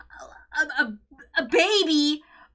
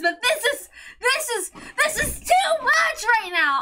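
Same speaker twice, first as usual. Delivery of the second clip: overwhelmed outburst; 4 semitones higher than usual. Real, not acted. Overwhelmed by emotion in rant.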